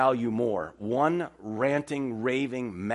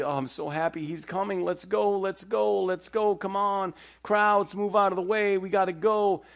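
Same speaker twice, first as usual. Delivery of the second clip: higher, urgent, hurrying father; eager Jairus; 7 semitones higher than usual. Pretend. Jairus urging Jesus and the crowd to hurry, eager and urgent. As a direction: push the crowd aside, desperate to get going. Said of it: "if you're Jairus".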